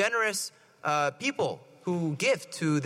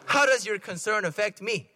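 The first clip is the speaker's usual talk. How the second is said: mock-rude comeback to mom; lightly played insolent son. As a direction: toss it back as a cheeky rebuff. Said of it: "isn't that rude?".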